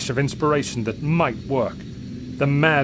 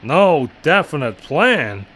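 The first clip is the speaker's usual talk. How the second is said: slow, loud, incredulous anger; he can't believe what he's hearing; blazing disbelief; 3 semitones higher, 8 dB louder, slower than usual. A narrator's reading. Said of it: "The general's eyes blazed".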